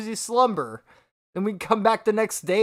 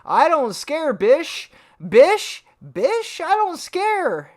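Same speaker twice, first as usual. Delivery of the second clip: loud, high mocking imitation; mock tough talk; 4 semitones higher, 4 dB louder, much slower than usual. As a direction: draw it out in hammed-up bravado. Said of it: "I'm looking at this man saying".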